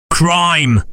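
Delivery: a shocked gasp of a word; startled echo. Acted. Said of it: "echoed Coates and Small in a breath".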